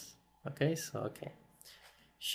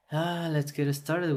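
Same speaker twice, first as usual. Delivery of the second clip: talking through a yawn; words stretched by a yawn; 4 semitones higher, 4 dB louder than usual. Real, not acted. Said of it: "I'm yawning".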